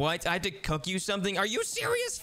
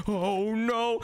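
dismayed shout; 2 semitones higher than usual. Acted. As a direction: shout it as the chicken burns. Chicken burns on the stove.

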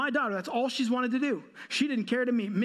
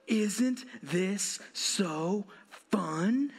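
mock cheerful; 3 semitones lower, much slower than usual. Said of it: "I lean over to her and I say".

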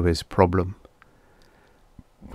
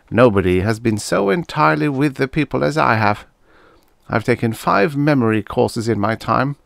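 lightly voiced politician, higher in pitch; self-assured politician; 5 semitones higher than usual. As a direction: boast a little, with lifted, emphatic phrasing.

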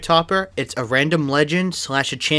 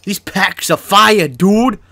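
excited; 6 semitones higher, 7 dB louder, much slower than usual. Real, not acted. Rare pull in pack opening.

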